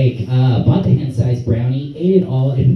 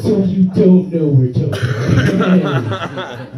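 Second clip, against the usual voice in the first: laughing slow question; much slower than usual. Retold or imitated. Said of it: "asking partygoers, laughing".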